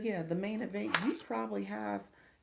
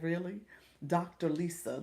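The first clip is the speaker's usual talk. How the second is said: mock serious. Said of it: "trying to be serious with me".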